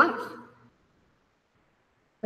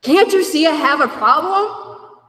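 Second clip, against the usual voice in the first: slow, louder, pleading with everyone; exasperated plea; 6 semitones higher, 6 dB louder, slower than usual. Retold or imitated. Recovering addict pleading to be understood, slow loud plea. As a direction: drag it out, begging to be seen. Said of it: "I'm like".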